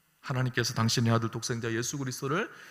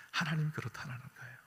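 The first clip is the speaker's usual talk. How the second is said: ordinary talk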